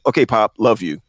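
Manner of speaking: lightly voiced breezy son; a hint of a casual young man saying bye; son's cheerful sign-off. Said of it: "That's how he says it".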